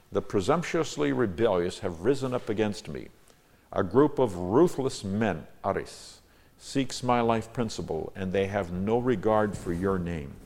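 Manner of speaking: declaimed psalm, key words lifted; measured, emphatic recitation; emphatic scripture reading. Acted. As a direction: read the verse out as a prayer to God. Reads own psalm translation.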